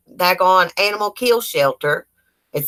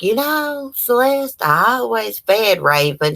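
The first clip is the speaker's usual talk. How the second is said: imitating the drunk neighbor; 5 semitones higher, slower than usual.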